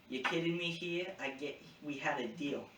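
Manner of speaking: badly faked Boston accent, indignant; terrible Boston accent. Recapping an argument over a broken deal, in a bad Boston accent. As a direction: protest in a hammed-up Boston accent. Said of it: "That was a terrible Boston accent".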